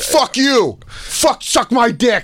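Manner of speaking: high, strained mock yell; mock heckling. Rich courtside fan abusing players, high mock yelling. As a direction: hurl abuse like an obnoxious fan.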